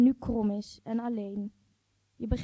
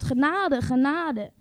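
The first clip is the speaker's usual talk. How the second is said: raised pleading cry of genade; begging for mercy, louder; calling out the safeword; 3 semitones higher, 6 dB louder, slower than usual. Retold or imitated. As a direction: mock-desperate plea for mercy. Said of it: "Ik schreeuw nog ons codewoord".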